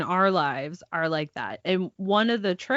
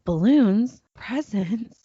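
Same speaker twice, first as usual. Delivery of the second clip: put-on high, squealing toddler wonder; imitating daughter discovering birthday presents; little girl's delight; 11 semitones higher, slower than usual. Mom imitating her daughter's birthday morning, high and thrilled. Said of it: "we could hear her go".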